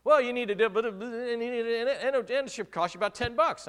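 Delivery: high, loud voice playing dad; dad giving quick car advice; voicing dad.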